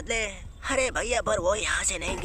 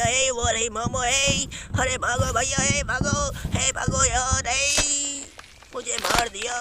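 high, loud frantic yells to run; panicked shouting; 5 semitones higher, 3 dB louder than usual. Acted. Fleeing the ghost Momo, yelling at friends in panic. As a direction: scream at your friends to flee the ghost.

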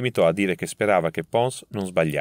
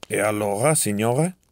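put-on shrill, petulant old professor; high and whiny, a touch impatient; very high pitch; 2 semitones higher than usual. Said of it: "con voce acuta e petulante". (voce acuta e petulante)

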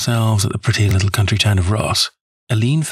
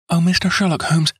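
put-on high, eager young woman's cry; 9 semitones higher than usual. A narrator's reading. Young woman rushing to Holmes, eager high cry. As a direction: she bursts in, calling his name. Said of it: "she cried".

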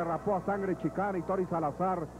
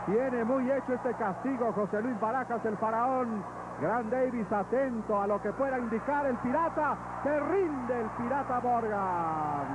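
higher-pitched call of the submission; excited play-by-play; 5 semitones higher than usual. Real, not acted. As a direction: build to the surrender. Submission finish called live.

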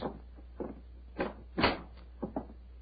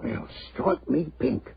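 stunned exclamation; 4 dB quieter, slower than usual. Acted. Inspector shocked at dead body.

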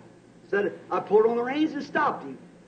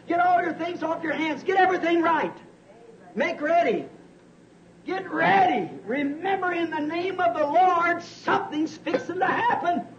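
rising exhortation; 6 semitones higher than usual. Real, not acted. Preacher warning the congregation something is coming, urgent high call. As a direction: press the warning home at full force.

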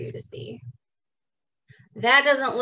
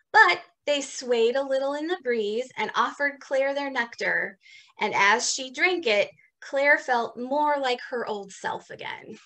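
story narration. A narrator's reading. Reads picture book aloud.

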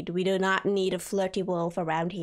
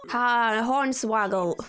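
pirate exclamation; 5 dB louder, slower than usual. Pretend. Pirate mischief in game.

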